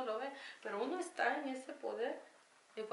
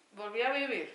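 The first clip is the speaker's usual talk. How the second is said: ordinary talk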